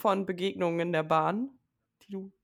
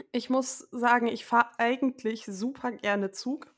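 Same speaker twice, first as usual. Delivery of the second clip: choking on a drink; 3 semitones higher than usual. Real, not acted. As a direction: voice catching after swallowing wrong. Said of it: "Entschuldige, ich hab mich verschluckt".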